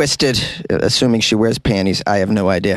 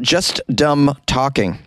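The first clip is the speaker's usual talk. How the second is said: mocking quote; 3 semitones higher, slower than usual. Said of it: "She wrote".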